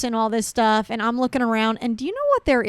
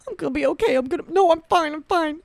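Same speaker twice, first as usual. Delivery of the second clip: higher, strained self-reassurance; mock holding back tears; 6 semitones higher, faster than usual. Walking away after her fall, higher mock-tearful insistence. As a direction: reassure yourself while pretending not to cry. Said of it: "I'm just doing this".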